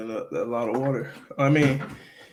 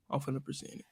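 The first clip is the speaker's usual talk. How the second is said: hushed whisper; 14 dB quieter, faster than usual. Real, not acted. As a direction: whisper it like a secret. Whispered announcement.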